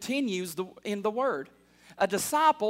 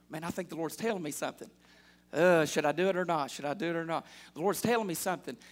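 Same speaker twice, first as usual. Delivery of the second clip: low, soft, hesitant self-questioning; hushed inner voice; 6 semitones lower, 5 dB quieter, faster than usual. Acted. Churchgoer's heart wondering what the Lord is telling, hushed inner voice. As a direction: voice a private thought under the breath. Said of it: "your heart starts going".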